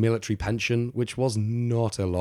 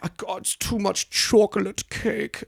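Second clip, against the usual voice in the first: high, loud squeal; 12 semitones higher, 3 dB louder than usual. Retold or imitated. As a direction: squeal with silly delight. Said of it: "Where she's just like".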